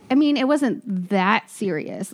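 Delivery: talking with a numb mouth; words slurred by a numb tongue. Real, not acted. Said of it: "my mouth is still numb".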